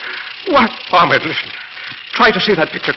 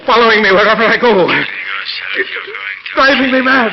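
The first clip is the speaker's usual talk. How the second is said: rising panic; 4 semitones higher than usual. Acted. Man breaking down over voice.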